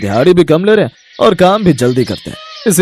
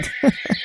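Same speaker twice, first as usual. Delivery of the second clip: breathy laugh; 10 dB quieter than usual. Acted. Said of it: "हंसिए मत uncle".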